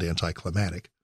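put-on Maryland accent, "anticlimactic" with a d slipped in front, "danticlimactic". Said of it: "as they say in Maryland".

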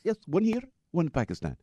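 mock Pakistani accent; bad Muslim accent. Driver explaining his two wives, in a mock Pakistani accent. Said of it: "my really bad Muslim accent".

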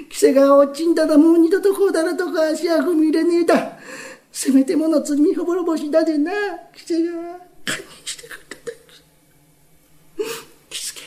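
高めの泣き声で誓う; 最後は小さく絞り出す涙声; tearful vow. Acted. 旦那が涙ながらに誓う. (旦那が喜助に、泣きながら誓う)

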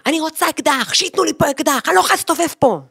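high, lightly voiced right-wing hardliner; a hint of a tough settler woman demanding a gun; Ayala Ben Gvir. Woman mimicking a hardliner who wants a gun, high-pitched. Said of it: "מדברת כמו איילה בן גביר".

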